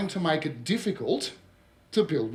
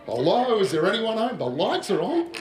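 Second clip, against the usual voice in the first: louder, teasing knock-knock tone; a hint of a condescending city type; mocking city slicker; 4 semitones higher, 4 dB louder than usual. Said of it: "What does this person tend to think".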